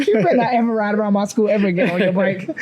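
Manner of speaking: fast mock scolding through amusement; retold telling-off. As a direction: rattle off a kid's telling-off, half laughing. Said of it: "telling me off".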